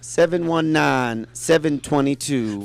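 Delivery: slow phone number read. Shown as a demonstration. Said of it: "Give us the number one more time".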